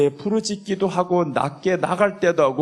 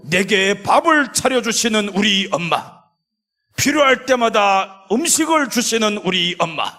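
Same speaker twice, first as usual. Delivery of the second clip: higher, mock whiny plea to mommy; childish prayer to mom; 6 semitones higher, 3 dB louder than usual. Pastor mocking prayers that treat God like a mom, higher mock whine. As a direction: pitch it up like a child asking for food.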